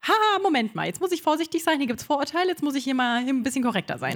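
AI voice. Retold or imitated. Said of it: "die K I schon weiß".

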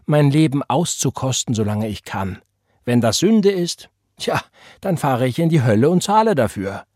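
bold, defiant declaration. Acted. Woman defying the reverend, bold and unrepentant. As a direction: throw her defiance back at him.

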